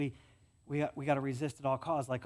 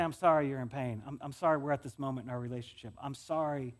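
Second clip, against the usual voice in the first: empathetic apology; 5 semitones lower than usual. Shown as a demonstration. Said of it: "It's just say".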